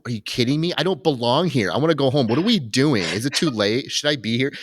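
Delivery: high, anxious run of questions; nervous and raw. Retold or imitated. Imitating Dave's nervous first-night doubts, high and anxious. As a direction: panic a little, wanting to go home. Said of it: "so ner-, and just raw with it".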